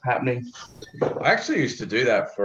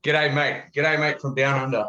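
hammed-up Australian G'day, higher; thick Aussie accent; 4 semitones higher than usual. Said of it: "Just really lay it on thick".

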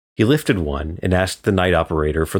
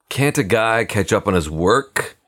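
grumbling; 4 semitones higher than usual. Acted. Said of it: "he grumbled".

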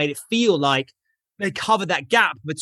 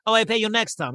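higher, mock Russian accent; 4 semitones higher than usual. Sore loser puts off paying, Russian accent. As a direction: brush it off in an imitated Russian accent. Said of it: "You can tell from the accent he's Russian".

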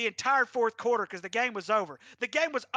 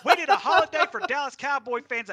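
loud, fast, laughing rant; fired-up mock outrage; 3 semitones higher, 8 dB louder than usual. Real, not acted. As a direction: rail at the President, half laughing. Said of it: "Okay, I'm done ranting".

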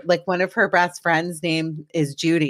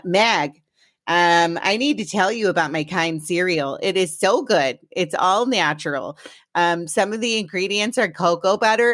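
a light, slightly raised take on a chatty mom; imitating mom. Daughter lightly imitating her long-winded mom on air. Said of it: "use this voice when I'm talking like my mom".

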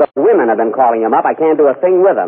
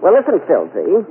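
Mae West voice; 4 semitones higher than usual. Pretend. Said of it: "If it's George Alice, you're terrific".

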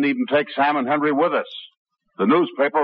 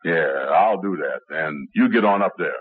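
holding the low voice; 6 semitones lower than usual. Acted. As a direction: keep the voice sitting low. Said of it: "you hold that voice".

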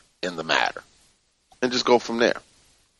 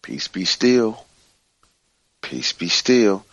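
slow shared mantra; slower than usual. Shown as a demonstration. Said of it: "say it with me".

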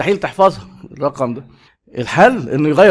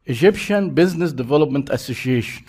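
Egyptian Business Development Association said slowly, word by word; slow and spelled out; much slower than usual. Shown as a demonstration. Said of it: "أربع حروف". (ببطء كلمة كلمة)

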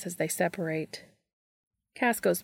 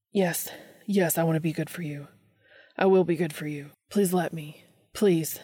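breathy eager pleading; desperate begging. Acted. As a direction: beg for it, urgent. Dean begging.

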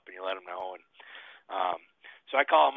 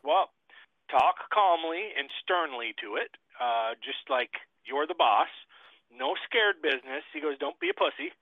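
imitating buddy; 6 semitones higher than usual. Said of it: "And he's like".

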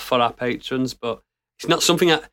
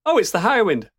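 imitating a gamer; 8 semitones higher than usual. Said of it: "He's like".

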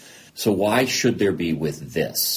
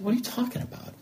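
retold disbelief; 6 dB quieter, faster than usual. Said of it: "And I said".

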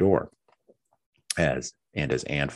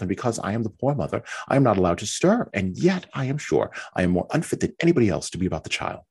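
high, complaining voice of a self-pitying wife; fretful Mary; 4 semitones higher than usual. Acted. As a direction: whine it out, feeling hard done by.

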